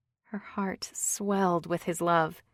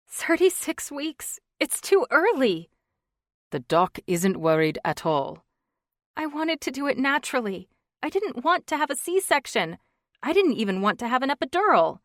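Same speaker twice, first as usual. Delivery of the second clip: higher, shaky tearful complaint; a wife near tears; 7 semitones higher, 8 dB louder than usual. Acted. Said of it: "Tears welled in her eyes".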